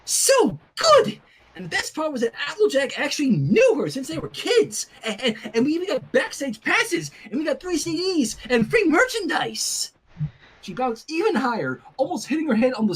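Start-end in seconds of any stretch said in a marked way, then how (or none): 0.0-9.9 squealing excitedly. Acted. Rainbow squealing to Sunset about backstage passes, very high and giddy. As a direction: squeal with delight and babble on. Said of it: "as she squealed".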